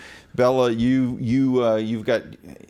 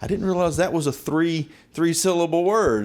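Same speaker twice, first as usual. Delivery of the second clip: mock surprise; 5 semitones higher than usual. Acted surprised reaction to drawled words.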